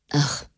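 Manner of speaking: a soft, sighed "Ach"; sighing ach. A narrator's reading. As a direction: let "Ach" out as a quiet sigh. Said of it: "seufzte der Papst".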